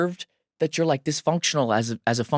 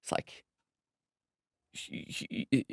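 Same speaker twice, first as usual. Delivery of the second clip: choked up; 13 dB quieter, slower than usual. Real, not acted. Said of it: "I'm emotional about that".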